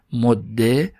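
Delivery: "مده" ending in a short "e"; kasra ending. Shown as a demonstration. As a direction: say "مده" as modde, doubled d. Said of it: "هم کسره بگیره".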